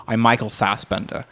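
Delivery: muffled attempt at an American accent, as if cotton in the throat; Michael Fassbender impression. Podcast guest imitating an actor doing an American accent, muffled mock impression. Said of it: "sounds like he puts cotton swabs".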